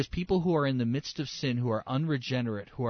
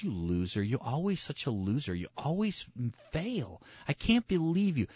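mock scornful accuser, climbing higher; accusing voice; 3 semitones higher than usual. The other guy accusing a believer, mock scorn. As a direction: belittle them with rising disbelief. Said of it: "the voice that comes and goes".

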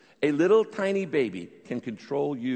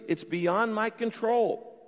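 prayer; 9 semitones higher, much slower than usual. Shown as a demonstration. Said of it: "you admit your inability".

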